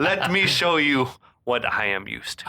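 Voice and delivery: hammed-up menacing villain line; evil villain voice. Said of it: "he was bringing that evil tote voice".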